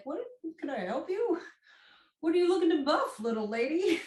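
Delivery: high, fast mock voice of a patronizing hardware clerk; condescending store manager. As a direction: play the smug manager talking down to a customer. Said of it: "have the manager come up to you and be like".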